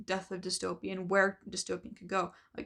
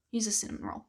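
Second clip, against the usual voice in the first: losing my voice, hoarse; hoarse, tired voice; faster than usual. Real, not acted. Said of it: "I've been losing my voice".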